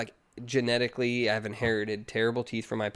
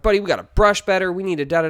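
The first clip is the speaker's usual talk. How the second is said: louder, a touch of alarm in the dad lecture; mild mock lecture; 6 semitones higher, 9 dB louder than usual. Dad warning his four-year-old about brushing, mock urgent. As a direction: hurry the brushing talk at the kid.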